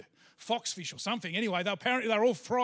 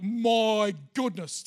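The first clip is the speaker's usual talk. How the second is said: slow, drawn-out amazement; exuberant; 4 dB louder, much slower than usual. Acted. Imagined fishermen with their heavy nets, exuberant. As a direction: stretch it out, marvelling at the catch. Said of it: "Can you imagine the exuberance".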